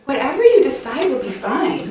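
light, upbeat agreement with a lifted, rising lilt; agreeable. Shown as a demonstration. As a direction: say it easily, as if you truly mean it. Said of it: "say this one of two ways".

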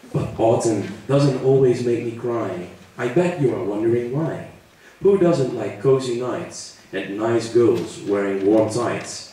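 measured reading of a light rhyming poem; poem recitation. Acted. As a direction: read it out line by line, landing the rhymes. Leest een Engels gedicht voor. (gedicht voordragen)

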